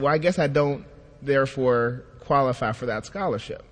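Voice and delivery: understated, deflated acceptance; mildly sad. Retold or imitated. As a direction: retell a letdown with a touch of sadness. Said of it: "So I was sad".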